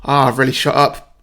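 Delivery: hyper, loud cockney chancer; James Corden. Acted. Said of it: "definitely channeling James Corden's, like, hyper energy".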